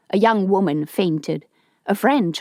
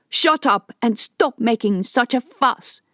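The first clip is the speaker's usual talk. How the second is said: higher, sharp annoyed order; snapped; 5 semitones higher than usual. Acted. J O snaps at the panicking Budiman, sharp. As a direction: snap him into silence. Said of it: "J O snapped at him".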